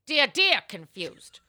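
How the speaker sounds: hammed-up columnist greeting; Ann Landers. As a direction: draw out a doting salutation. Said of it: "the answer is in Anne's voice".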